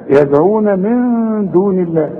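slow high chant, bounced يدعون, plain دون; qalqalah on first د. Shown as a demonstration. Teacher completing the verse, qalqalah in يدعون. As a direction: echo the d of يدعون and hold the nasal of من. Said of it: "الأولى ده قلقل".

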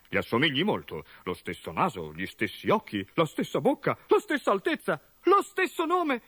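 mother's realisation swelling to joy; building exclamation. Acted. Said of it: "esclamò la madre di Gorgo".

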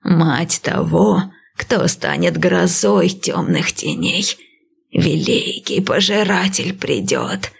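slow, lightly voiced old priestess; calm old seer, unhurried; old woman voice. Prophecy, slow.

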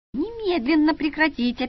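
high, thin little squeak; a small voice trying to command; squeaked order. A narrator's reading. Director squeaking at the brawlers from the couch. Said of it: "пискнула я с дивана".

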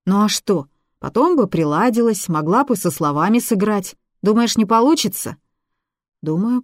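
put-on girl talking herself up, insistent; young girl selling her film dream to a skeptical man; eager girl voice.

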